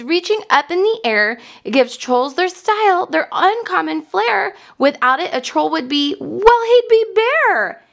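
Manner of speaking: put-on bouncy rhyme for kids, building to a high finish; rhyming poem reading. A narrator's reading. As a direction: read the rhyme with growing lift, like a picture-book poem. Reads the rhyming troll poem.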